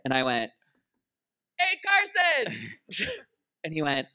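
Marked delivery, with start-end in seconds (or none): 1.6-3.1 very high, slow hey Carson; drawn-out call. Retold or imitated. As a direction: stretch the call across the hall. Calling to Carson.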